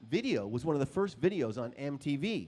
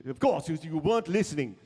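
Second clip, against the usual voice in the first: mock scolding; 3 semitones higher, 7 dB louder than usual. Boss scolding, louder.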